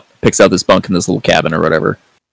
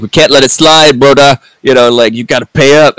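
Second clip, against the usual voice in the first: raised-pitch mock shakedown; imitated demand; 5 semitones higher, 4 dB louder than usual. Enforcer comes to collect from Amos, imitated pushy demand. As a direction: lean on him as a pushy collector, half-acted.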